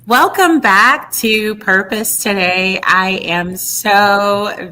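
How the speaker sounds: loud, bright show-host welcome; excited welcome. Real, not acted. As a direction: boom it out like a TV host. Host opens show segment loudly.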